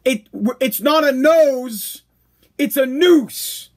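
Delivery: slow, stretched-out mock scolding; exasperated correction. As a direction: imitate listeners spelling it out for a slow learner. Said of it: "You were trying to tell me".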